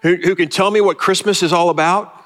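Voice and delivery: put-on high, pleading cry of a frustrated kid; frustrated boy calling out for an answer; Charlie Brown crying out. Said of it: "he cries out".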